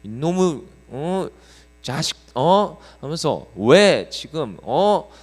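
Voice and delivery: hammed-up telling-off; retold scolding. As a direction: pastor scolding kids at the convenience store, mock angry. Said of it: "세워놓고 혼냈어요".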